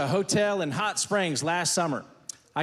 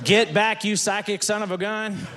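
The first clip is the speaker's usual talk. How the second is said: mock exclamation; 3 dB louder than usual. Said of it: "punchline exclamation".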